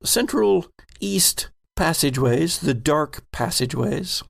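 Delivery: measured game master narration; scene narration. Acted. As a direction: set the scene for the players.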